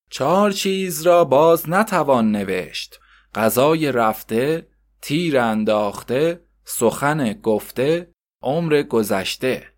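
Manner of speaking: slow, deliberate reading of a proverb; slow measured schoolbook recitation; lesson recitation. Acted. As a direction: read each maxim slowly like a lesson. Reads maxims from the textbook.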